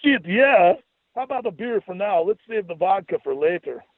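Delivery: high, gleeful goofy Scottish voice; light up at free booze in the brogue; eager fake Scottish accent, pitched high; excited Scottish brogue. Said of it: "Jesus lit up at the mention of free booze".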